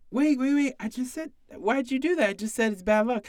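retelling a coworker's shocked objection, high and startled; mock disbelief. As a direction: throw the voice up in disbelief. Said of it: "my partner's like".

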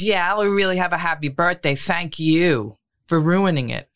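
mildly sarcastic, slowing on the thank-you; retold sarcastic retort. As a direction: imitate a mother's bitter thanks, dragging out the last words. Mother's bitter birthday retort, retold.

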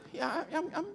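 soft, stammering "good" through a laugh; hesitant laughing "I'm good". Retold or imitated. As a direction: laugh nervously while insisting. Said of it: "The one in the middle".

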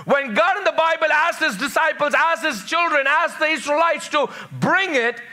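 high-pitched, ringing scripture proclamation; emphatic preaching. Real, not acted. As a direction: drive each phrase home like a preacher.

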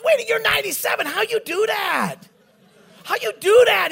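hammed-up incredulous questioning; astonished. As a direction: demand it in high-pitched amazement. Retells astonishment at old man's arm.

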